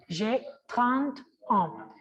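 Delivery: slow j'ai trente ans, nasal an at the end; nasal an demo. Shown as a demonstration. Teacher demonstrating the nasal an to the class, slowly. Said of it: "es an, como una nasal".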